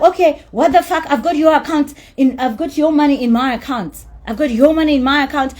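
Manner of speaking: imitating a furious woman screaming over money; mock screaming. Woman yelling at the promoter about the money, mock furious scream. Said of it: "she's screaming on top of her voice".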